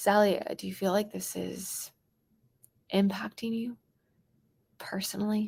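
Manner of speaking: soft, caring, concerned tone. Demonstrating how to speak to someone about their pain, in a concerned tone. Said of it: "I need to be concerned".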